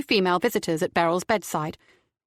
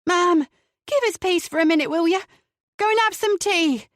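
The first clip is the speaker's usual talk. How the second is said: high, louder firm dismissal; firm Tara; 9 semitones higher, 3 dB louder than usual. A narrator's reading. Tara sending the mother off for tea, firmly. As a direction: shoo her out briskly. Tara's voice.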